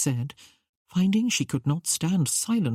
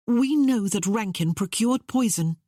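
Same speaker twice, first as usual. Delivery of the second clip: higher-pitched, urgent disclosure; blurted out; 6 semitones higher than usual. A narrator's reading. Young woman warning the queen of poison, blurted. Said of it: "Kate blurted out".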